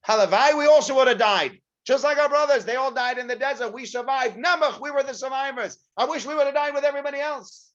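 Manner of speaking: high, loud mournful moaning; self-pitying whine. Acted. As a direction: moan that the dead were lucky. The people whine about surviving.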